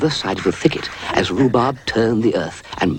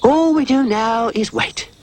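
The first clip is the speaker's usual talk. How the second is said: high slow weary dog voice; a tired call to the animals; slower than usual. A narrator's reading. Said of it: "shouted Rhubarb in a weary sort of way".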